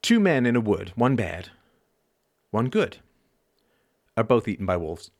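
measured verse with pauses between phrases; poem recital. Shown as a demonstration. Speaker reciting own teenage poem to audience, measured recital. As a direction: recite it as a short, deliberate poem. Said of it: "Are you ready for a poem?".

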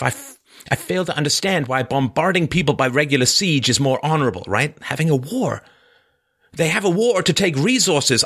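bitter, defiant murderer, pitched high. Acted. Raskolnikov lashing out at his sister, high and bitter. Reads Raskolnikov's confession aloud.

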